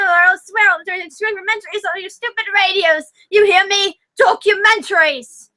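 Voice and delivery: ranting cartoon Englishman. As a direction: rant like a hammed-up angry Englishman. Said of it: "attempting to do as many voices".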